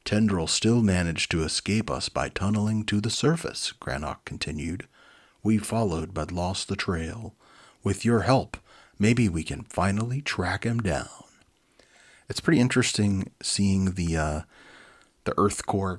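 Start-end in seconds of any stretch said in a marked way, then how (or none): 0.0-11.2 lively read-aloud storybook voice; animated storyteller; story narration. A narrator's reading. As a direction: read it like a children's book. Reads children's book aloud.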